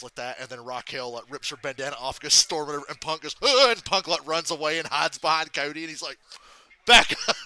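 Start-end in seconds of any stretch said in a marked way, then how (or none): 3.4-3.7 quick mock cry of fright; play-acted startled "ah"; imitated yelp. Imitating wrestler's startled yelp in retelling. 6.9-7.4 high, loud imitated warning; hammed-up panicky shout, about to laugh; mock frightened shout. Voicing scared wrestler hiding behind partner.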